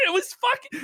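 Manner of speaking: high, helpless cackle into speech; laughing through words. Real, not acted. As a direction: crack up mid-sentence. Cracking up at his own imitation.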